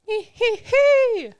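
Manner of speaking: high, slow, eerie giggling hee hee; creepy snake giggle. Retold or imitated. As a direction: hiss it out like a sneaky snake. Snake hissing intro of video.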